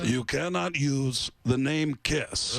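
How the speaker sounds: slow, deliberate mock decree; stern legal notice. Kiss forbids teen band their name, stern. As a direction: lay down the ban word by word. Acting out cease and desist letter.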